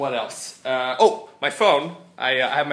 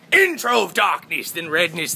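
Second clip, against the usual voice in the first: announced intro; 4 semitones higher, 4 dB louder than usual. Acted. Vlogger announces his show's intro to viewers, announced intro. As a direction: start big and high, step down each phrase.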